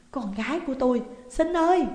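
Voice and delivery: rising to a loud wail on xin ơi; a mother crying out for her lost girl; anguished cry. Acted. Mother cries out for daughter. (người mẹ gào gọi con gái, càng lúc càng to)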